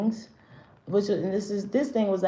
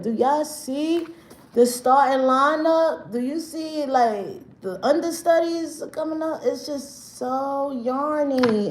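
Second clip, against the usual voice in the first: mocking disbelief; 5 semitones higher, slower than usual. Real, not acted. Mocking wannabes, high slow voice.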